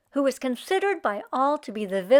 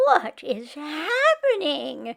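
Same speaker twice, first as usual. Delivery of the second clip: exclaiming; 3 semitones higher, slower than usual. Acted. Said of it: "she exclaimed".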